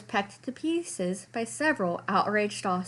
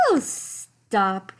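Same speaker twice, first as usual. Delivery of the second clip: giggling; 4 dB louder than usual. A narrator's reading. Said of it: "giggled Cousin Clara".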